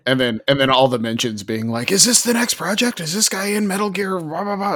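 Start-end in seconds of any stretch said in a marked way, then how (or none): 1.9-4.7 high-pitched mock fan chatter; eager fans. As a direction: imitate fans pestering with excited questions. Acting out excited fans' replies.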